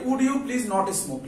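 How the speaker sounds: very slow, soft English question; slow demo reading. Shown as a demonstration. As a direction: lay each word out slowly. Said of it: "এটাকে আমরা বলতে পারি". (ধীরে, নরম গলায় প্রশ্ন)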